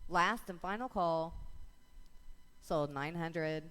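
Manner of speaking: rapid rhythmic bid calling; auctioneer. Real, not acted. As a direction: auction chant, numbers rolling. Auction chant calling bids.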